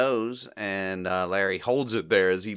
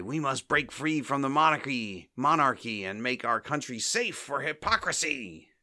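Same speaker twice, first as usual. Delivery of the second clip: raised pitch, lightly voiced political oration; mock speechmaking; 5 semitones higher than usual. Three stooges giving a balcony speech to a massive crowd, mock oratory.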